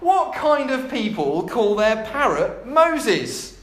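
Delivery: slow, drawn-out incredulous question; milk the question with light mockery; mock scornful amusement. Burglar mocking the parrot's name, slowly and incredulously. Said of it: "the burglar laughed".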